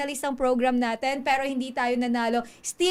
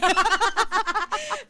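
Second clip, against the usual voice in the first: high, amused burst of laughter; real high-pitched cackling laugh; hearty laugh; 6 semitones higher than usual. Real, not acted. Host laughs at guest's joke.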